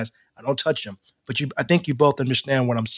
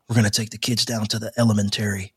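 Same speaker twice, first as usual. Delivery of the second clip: lightly imitated English accent, lower pitch; 4 semitones lower, 4 dB quieter, faster than usual. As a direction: put on a hint of an English accent. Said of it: "it's the English accent".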